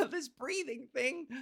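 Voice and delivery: slow, lifted playful voice; high feminized voice. Real, not acted. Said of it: "modulating my voice".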